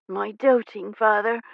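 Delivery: affectionate. Acted. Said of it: "Poppy said affectionately".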